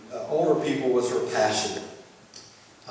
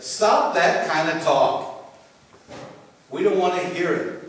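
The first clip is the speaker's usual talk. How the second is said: protesting; 5 semitones higher than usual. Retold or imitated. Peter protests to Jesus, acted.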